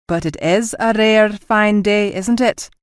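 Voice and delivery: slow, dead-serious deadpan; mock solemn. Officer whispering a joke to the captain, mock solemn. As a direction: ask it with a straight face. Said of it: "he asked solemnly".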